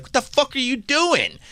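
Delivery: high, furious mock yell of a jealous fiancé; mock Billy Zane. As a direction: squeal it out like an outraged rich fiancé. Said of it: "If I'm Billy Zane right now".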